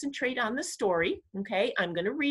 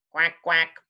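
two short, low, loud quacks; duck quack; 4 semitones lower, 6 dB louder than usual. A narrator's reading. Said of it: "called the duck".

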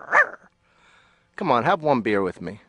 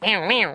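cat meow imitation; 8 semitones higher than usual. Teller imitates punched cat.

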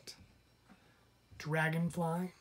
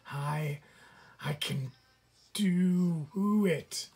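straining effort; 2 semitones higher, 4 dB louder, slower than usual. Acted. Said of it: "puffed the determined raccoon, struggling".

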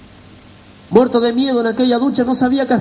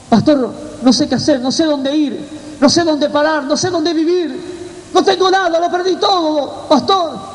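desperate plea; 3 semitones higher than usual. Retold or imitated. Homeless convert begging his pastor for guidance, desperate plea. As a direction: plead with mounting desperation, drawing out the loss.

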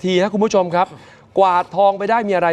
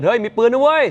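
mock alarmed shout; 6 semitones higher than usual. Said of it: "รปภ ทักปั๊บ".

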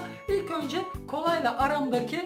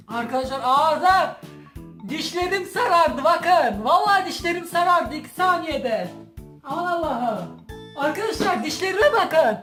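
dismayed; 4 semitones higher, 4 dB louder than usual. Real, not acted. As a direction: wail that your teeth are ruined. Dismayed over yellowed teeth.

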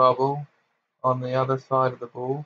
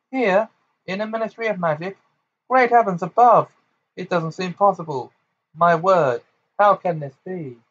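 high, loud shocked exclamations; astonished; 6 semitones higher, 5 dB louder than usual. Acted. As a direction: sputter in disbelief. Fudge astonished outburst.

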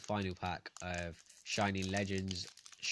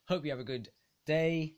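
cheery outro voice; 6 semitones higher than usual. Acted. Sign-off outro voice.

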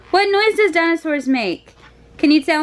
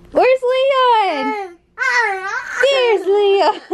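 peekaboo; 6 semitones higher, much slower than usual. Real, not acted. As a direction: pop out with a bright surprise. Peekaboo with shirt.

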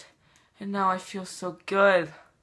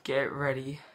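hushed teasing whisper; 4 semitones lower, 6 dB quieter than usual. Acted. Vlogger building suspense before showing his brother, whisper. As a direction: breathe it like a secret before the reveal.

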